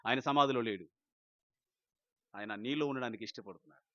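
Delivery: ordinary delivery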